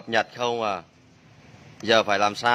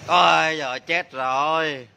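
drawn-out mock wail of dismay; 3 semitones higher than usual. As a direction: groan it out slowly, playing at disaster. Giả vờ than khi máy báo lỗi. (giả vờ than thở, kéo dài giọng)

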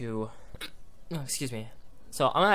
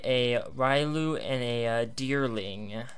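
hiccuping; 2 semitones lower, much slower than usual. Real, not acted. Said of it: "I don't know why I'm hiccuping so much".

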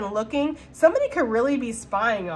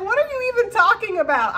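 laughing quote; 11 semitones higher, 5 dB louder than usual. Retold or imitated. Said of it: "He's like".

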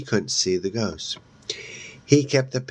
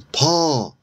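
high, louder cry of his name; anguished call; 8 semitones higher, 5 dB louder than usual. A narrator's reading. Melissa cries to Paul lying still, high and anguished. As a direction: call out to him in shock.

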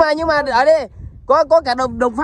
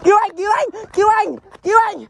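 mock plea for help; 6 semitones higher, faster than usual. Begging to be rescued.

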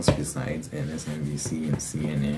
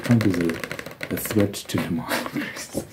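mocking liberal media; 2 semitones higher than usual. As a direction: sneer at the slogan as you say it. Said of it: "what is it?".

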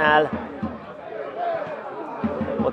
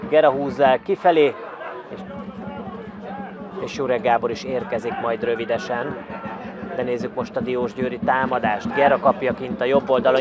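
normal talking voice

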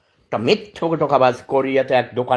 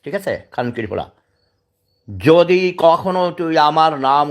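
furious threat; 3 semitones higher than usual. Real, not acted. Man warns the YouTuber never to say or mimic his name, furious. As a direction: threaten him hard, daring him to try.

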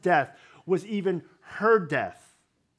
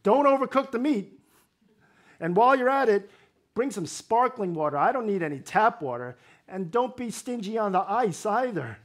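higher, louder, bossy mock order for a feast; mock pushy Elijah; 5 semitones higher, 4 dB louder than usual. Preacher mocks Elijah demanding a fancy dinner from the widow, higher and louder bossy order. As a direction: ham up a demanding diner placing his order. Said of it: "Elijah might as well have asked the woman".

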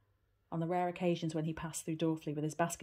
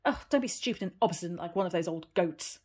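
a sharp, louder scolding snap; snapping; 7 dB louder than usual. Acted. Aunt snapping at a stubborn Heidi, sharp and louder. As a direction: scold her like a stubborn goat. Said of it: "snapped Detty again".

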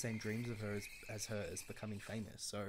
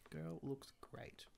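hushed admiration; 4 semitones higher, 5 dB quieter, much slower than usual. Real, not acted. Admiring her Sim's outfit.

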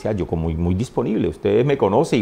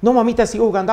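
lightly voiced child, much higher; a hint of a small boy; 9 semitones higher, faster than usual. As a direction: answer mom like an eager kid. Child answering his mother.

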